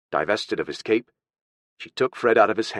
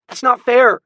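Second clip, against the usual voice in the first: put-on very high, loud childish protest; loud, pitched-up outrage; indignant little boy; 10 dB louder than usual. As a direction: protest as a boy throwing a tantrum.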